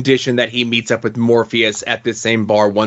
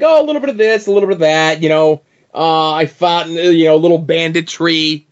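higher, a touch louder, breezy mock rogue; lightly voiced carefree bandit; jaunty rogue voice; 3 semitones higher, 3 dB louder, faster than usual. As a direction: toss it off like a cheerful scoundrel. Retelling Hobgadling's answer.

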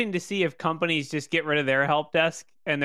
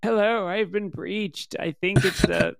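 panicked caller; 4 semitones higher than usual. Pretend. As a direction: fake helpless caller, small voice. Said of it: "I will call in and be like".

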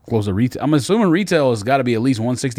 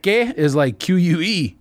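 high-pitched, slow mock Mexican accent; 8 semitones higher, slower than usual. Shown as a demonstration. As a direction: put on a light Mexican Spanish accent. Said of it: "That was your Mexican voice".

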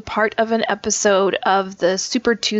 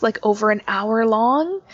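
dismayed at how long it was; appalled. Real, not acted. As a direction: sound shocked at the length. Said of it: "You sounded so appalled".

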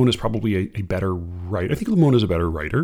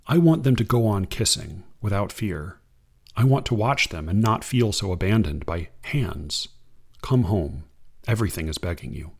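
unhurried reading of verse; poem reading; 2 semitones lower than usual. Acted. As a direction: read it like a poem to an audience. Reads an Ada Limon poem.

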